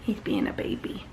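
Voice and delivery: soft whisper; breathy hushed aside. Real, not acted. Remark about her pet.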